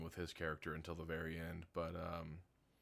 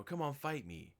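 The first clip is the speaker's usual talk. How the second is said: mocking taunt; 9 semitones higher than usual. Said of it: "is like".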